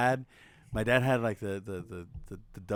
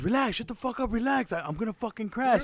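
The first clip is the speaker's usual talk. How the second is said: imitated exasperated dad; 11 semitones higher than usual. Stressed dad scolding while driving.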